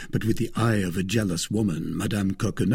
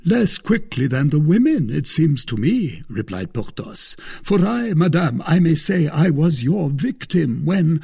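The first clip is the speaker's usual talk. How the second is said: a wounded noble's raised complaint; Porthos voiced high and loud; 8 semitones higher, 6 dB louder than usual. A narrator's reading. Porthos reproaching the wife, loud and high. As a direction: lay the guilt on thick, pitched high.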